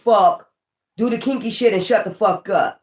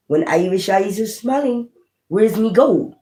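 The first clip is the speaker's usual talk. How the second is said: mock Irish accent; 3 semitones higher than usual. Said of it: "I don't know why I got Irish".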